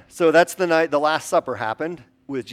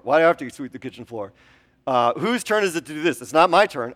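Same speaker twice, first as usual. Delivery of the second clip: put-on louder, fast complaining kid; whiny kid; 3 dB louder than usual. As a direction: gripe about chores, a touch hammed-up. Kids bickering, voiced by pastor.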